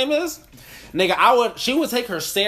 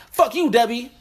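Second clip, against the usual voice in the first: imitating a rapper; 6 semitones higher than usual. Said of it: "I can hear a rapper".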